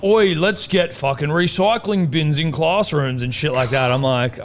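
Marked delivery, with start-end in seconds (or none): 0.0-3.2 a loud eager leader voice, slowed; lightly mocking eager student; mock keen student leader. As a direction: ham up the keen council pitch. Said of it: "it was like".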